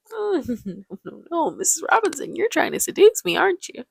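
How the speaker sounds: put-on high, flustered nerdy young man; imitating an awkward little nerd; cute little nerd voice. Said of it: "very cute little nerd voice".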